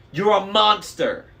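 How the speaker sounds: furious. A narrator's reading. Annabeth yelling at Luke, furious. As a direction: spit it at him.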